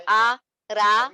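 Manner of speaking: आ रा drawn out very slowly, loud and rounded; heavy raa. Shown as a demonstration. Teacher shows students the heavy रा, slowly. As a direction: stretch रा open and heavy, lips rounded. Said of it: "थोड़ा सा heavy करके रॉ को".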